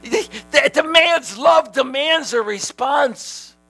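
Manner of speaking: slow, weighty declaration; slow emphasis. Real, not acted. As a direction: lean on every word slowly.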